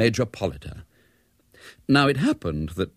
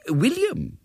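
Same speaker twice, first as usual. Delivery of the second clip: put-on old coach. A narrator's reading. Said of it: "said Mister Polliter".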